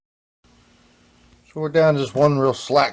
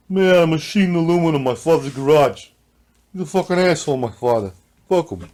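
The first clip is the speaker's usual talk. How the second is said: put-on Long Island accent; 4 semitones higher, 5 dB louder than usual.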